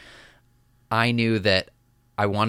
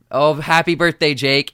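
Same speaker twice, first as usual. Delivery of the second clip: TV host birthday greeting; 6 semitones higher, 7 dB louder than usual. Retold or imitated. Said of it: "you announced".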